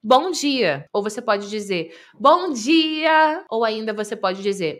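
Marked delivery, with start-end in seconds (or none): 0.0-0.9 louder, upbeat good morning; energetic hello; bright greeting. Shown as a demonstration. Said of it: "é a forma que você está dizendo bom dia". 2.2-3.5 higher, louder, rising good morning; excited rising hello; enthusiastic greeting. Shown as a demonstration. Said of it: "é a forma que você está dizendo bom dia".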